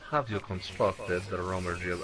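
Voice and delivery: put-on a failed stab at a German accent; bad German accent. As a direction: attempt a German accent and fumble it. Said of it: "I can't do a German accent".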